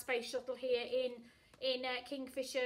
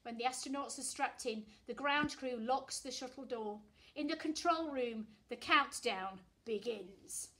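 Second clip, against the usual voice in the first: put-on lively read-aloud voice for children; storytelling; 4 dB louder than usual. A narrator's reading. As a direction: read it like a bedtime picture book. Reading a picture book aloud.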